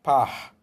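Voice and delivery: "Par" said alone, loud and clear; loud syllable. Shown as a demonstration. Teacher modelling first syllable answer, loud syllable. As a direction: call out "Par" as its own syllable. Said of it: "Qual é a primeira sílaba?".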